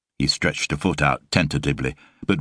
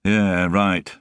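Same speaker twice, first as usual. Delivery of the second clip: flat; 4 semitones higher than usual. Acted. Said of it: "she said flatly".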